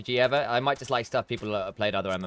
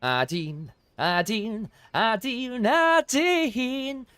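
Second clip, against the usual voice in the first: each call climbing higher; building impatient call, last one higher and louder; 11 semitones higher, 3 dB louder, much slower than usual. Real, not acted. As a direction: keep calling her name, rising in impatience. Calling impatiently to NPC.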